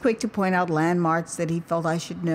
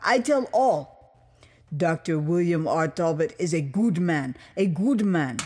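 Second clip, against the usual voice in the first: lightly voiced proud Liberian man; a hint of a patriotic official, firm; lightly voiced official telling an American visitor, proud. Official praises his boss.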